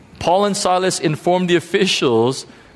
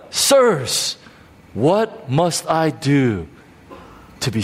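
slower plea, even and falling; pleading jailer repeated; slower than usual. Retold or imitated. Preacher savouring the jailer's plea, slow. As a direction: linger on each word, sinking. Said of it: "Think about it".

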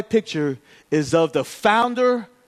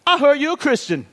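pitched-up, oddly forward greeting; awkwardly earnest approach; 5 semitones higher than usual. Retold or imitated. Gym guy approaching pastor in locker room, awkwardly earnest. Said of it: "Who talks like that in a gym?".

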